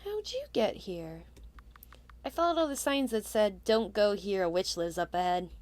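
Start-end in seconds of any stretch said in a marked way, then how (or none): 2.2-5.5 lightly voiced shy boy; a light hint of a timid scarecrow kid. Player voicing the scarecrow boy to the witch, timid.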